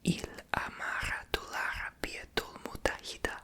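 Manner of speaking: "Il amara tu l'Arabia tul mutahida" whispered syllable by syllable; reading Arabic. Shown as a demonstration. Repeating the translator's Arabic for viewers, whispered. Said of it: "tells me the translation".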